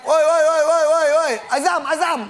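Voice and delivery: sing-song shouted call across a distance. Shown as a demonstration. Host demonstrating a shout to a friend, loud sing-song. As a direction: call a friend far away, loud and high. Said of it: "Selain teriak".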